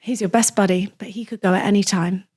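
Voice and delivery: earnest pet insurance advert, sincere and caring; mock-heartfelt pitch to pet owners. Shown as a demonstration. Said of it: "sort of a heartfelt insure".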